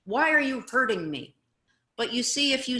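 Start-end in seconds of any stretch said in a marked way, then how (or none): 0.0-1.3 loud, pretend wounded protest; mock upset. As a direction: act all hurt, hammed-up. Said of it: "get all upset and say".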